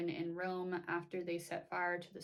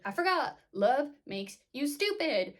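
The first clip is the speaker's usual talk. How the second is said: sarcastic Claudia; 7 semitones higher, 8 dB louder than usual. Retold or imitated. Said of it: "Claudia is like".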